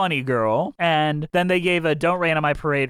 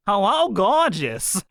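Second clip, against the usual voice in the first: impression of a singer; 3 semitones higher, slower than usual. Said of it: "does an impression of a singer".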